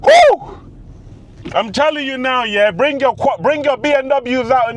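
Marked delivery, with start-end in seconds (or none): 0.0-0.6 very high, loud whoop; excited whoop. Real, not acted. Driver whooping with joy on the road. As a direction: let out a big whoop.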